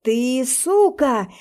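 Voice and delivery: slow furious shout. Acted. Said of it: "кричит Бриан".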